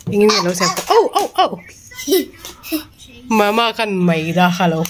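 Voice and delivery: talking through laughter; laughing. Real, not acted. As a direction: laugh while saying it.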